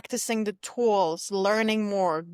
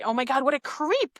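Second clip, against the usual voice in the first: creeped-out; 4 semitones higher than usual. Retold or imitated. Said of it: "Now, what are you gonna say?".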